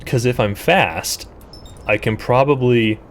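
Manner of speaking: talking through the hiccups; hiccuping between words. Real, not acted. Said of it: "excuse me, I got the hiccups".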